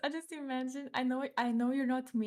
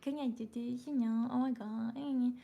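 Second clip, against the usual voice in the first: put-on cutesy kid voice. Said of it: "trying to sound extra cute".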